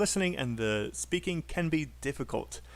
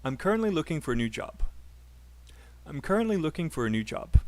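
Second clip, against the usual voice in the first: quick, with CURRENTLY and JOB punched, "for a" squeezed; natural stress timing; faster than usual. Shown as a demonstration. Teacher showing students natural stress timing. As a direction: run it fast, landing on "currently". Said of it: "let me show you guys what I mean".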